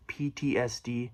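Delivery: breathy unvoiced whisper to herself; whispered aside. Real, not acted. Author whispers a book title to herself while trying to recall it.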